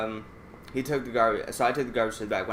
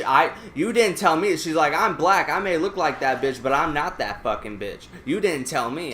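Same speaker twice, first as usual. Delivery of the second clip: higher, louder mock yell of the customer; retold angry yelling; 5 semitones higher, 5 dB louder than usual. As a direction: act out her shouting fury, half-reenacted.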